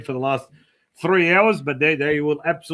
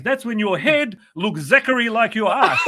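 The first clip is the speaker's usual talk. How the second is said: laughing punchline; 4 semitones higher, 4 dB louder than usual. Retold or imitated. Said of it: "He goes".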